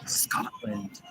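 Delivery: Scotland with an open "ah", said softly; soft American Scotland, open first vowel; American pronunciation. Shown as a demonstration. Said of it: "In America, we would say".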